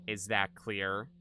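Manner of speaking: put-on slow, menacing psycho girl voice; crazy psychopath girl. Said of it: "You do a crazy psychopath girl voice really well".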